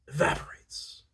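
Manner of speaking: whisper. A narrator's reading. Intense lover, breaking off.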